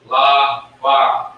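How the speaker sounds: loud sounded-out la and ba; teacher sounding out La, ba; sounded-out syllables. Shown as a demonstration. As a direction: call out La and ba as separate syllables. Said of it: "You hear that?".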